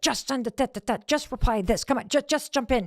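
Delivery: mock pestering, stumbling over the words to push someone; impatient nagging. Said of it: "I'm trying not to send a text".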